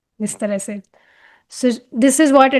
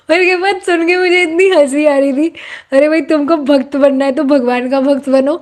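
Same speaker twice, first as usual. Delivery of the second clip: tickled by your own anecdote; amused, laughing; 2 semitones higher than usual. Real, not acted. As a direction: tell it with laughter still in your voice. Still amused by tea-devotee joke.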